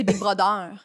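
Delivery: "Big Brother" with French r and vowels; French accent. Retold or imitated. Teasing a friend's accent, imitated French accent on "Big Brother". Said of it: "je dis avec un accent français".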